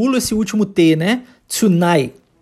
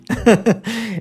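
short laugh; 3 semitones higher than usual. Real, not acted. Teacher laughs after example.

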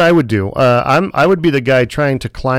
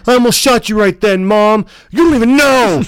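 put-on higher kid voice; mock kid voice; 8 semitones higher, 4 dB louder than usual. Child telling his mom, high bratty voice. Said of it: "S1 mock kid to mom".

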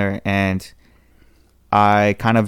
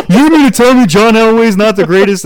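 much higher and louder, fired up; excited football banter; 12 semitones higher, 10 dB louder than usual. Retold or imitated. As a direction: challenge him like a rowdy sports fan. Principal voiced, arguing football.

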